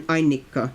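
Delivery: ANnika, strong first syllable and lingering double n; first-syllable stress. Shown as a demonstration. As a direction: demonstrate "Annika", low, leaning on the opening syllable. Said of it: "strong stress on the first syllable".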